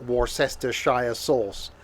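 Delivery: Worcestershire spelt out as "wor-sester-shire"; American mispronunciation. Retold or imitated. Mocking American cooking shows, Worcestershire fully sounded out. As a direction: say every part of Worcestershire, ending in "shire". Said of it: "Americans do cooking shows and call it".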